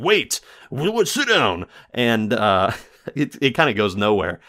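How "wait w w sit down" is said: high, flustered brush-off; annoyed clerk. Retold or imitated. Clerk brushing off Caligari, mock flustered. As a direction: stammer him back down, pitch up. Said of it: "the guy keeps going".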